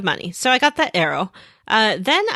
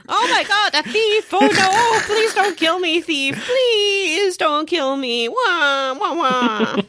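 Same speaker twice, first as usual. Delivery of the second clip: shrill mock panic, much higher, fake crying; hammed-up terrified old man begging for his life; panicked ancestor; 9 semitones higher, slower than usual. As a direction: squeal and blubber like a frightened coward. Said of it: "flipped the fuck out".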